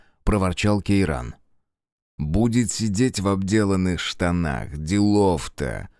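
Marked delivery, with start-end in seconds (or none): 2.2-5.9 phlegmatic. Acted. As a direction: shrug it off lazily. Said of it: "флегматично отозвался Фергус".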